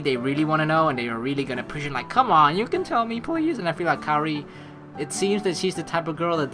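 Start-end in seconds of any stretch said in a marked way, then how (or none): 2.1-3.6 higher, louder mock pestering; nosy pleading. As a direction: imitate a nosy person begging for a secret. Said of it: "some people are very nosy".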